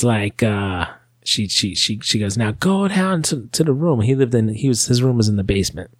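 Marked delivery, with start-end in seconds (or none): 2.4-4.0 mother yelling. Retold or imitated. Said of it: "she starts yelling at us".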